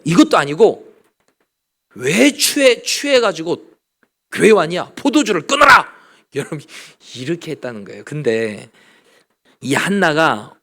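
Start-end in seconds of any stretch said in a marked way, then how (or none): 1.9-5.9 mock rebuke. Eli rebukes Hannah, retold.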